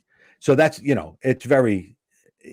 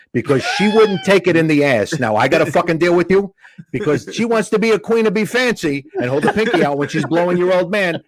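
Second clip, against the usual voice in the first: higher-pitched, run-on comic tirade; mock exasperated rant; 5 semitones higher than usual. Comic answering a heckler about his mom, mock exasperated rant. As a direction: pile up the complaints in mock exasperation.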